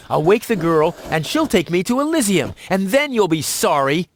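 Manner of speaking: defiant boast. Acted. Would-be escapee vowing to show the ex, defiant. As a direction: insist on it, pitch climbing.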